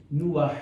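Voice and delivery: Nuah said as in Hebrew, in two syllables; Hebrew pronunciation. Shown as a demonstration. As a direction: say Nuah with a clear "oo-ah". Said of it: "his name is from Hebrew".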